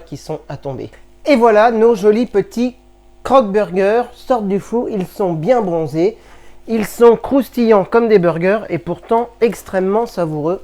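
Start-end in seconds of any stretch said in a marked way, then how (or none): 1.3-10.6 excited. Real, not acted. Proud reveal of dish from oven.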